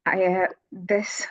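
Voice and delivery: a choked, whispered, slow start; fighting back tears. Real, not acted. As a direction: hold back the tears, barely voiced. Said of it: "I'm trying so hard not to cry".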